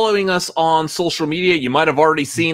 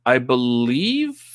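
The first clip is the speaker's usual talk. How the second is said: slow, bad Scottish accent; a clumsy stab at a Scottish brogue. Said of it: "in my terrible Scottish accent".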